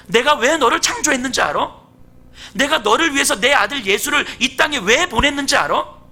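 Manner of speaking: acted divine interrogation from the pulpit; God's challenge. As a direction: confront the congregation as God would. Preacher voices God questioning believers.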